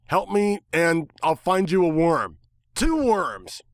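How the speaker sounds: high, wheedling bargain; eager pleading. Acted. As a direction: narrator bargains worms with the bird, high and eager.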